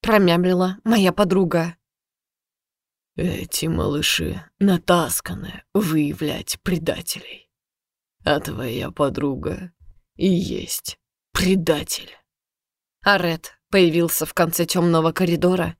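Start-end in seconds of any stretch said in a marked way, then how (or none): 3.1-12.1 menacing villain. Acted. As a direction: calmly condemn her, slow and soft. Villain's menacing slow accusation.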